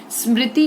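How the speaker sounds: स्मृति with the weight on मृ; stress on मृ. Shown as a demonstration. Teacher shows syllable stress to children, stress on मृ in स्मृति. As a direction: lean on the मृ in स्मृति. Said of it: "री पर ज्यादा पड़ा".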